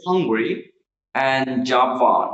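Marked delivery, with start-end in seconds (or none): 0.1-0.5 Hungary with the weight on "HUN"; stress on first syllable. Shown as a demonstration. Teacher modelling Hungary for learners, first-syllable stress. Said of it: "first one is stress".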